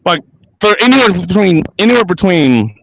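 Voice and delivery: a hint of Daffy Duck lisping. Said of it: "doing my best Daffy Duck impression".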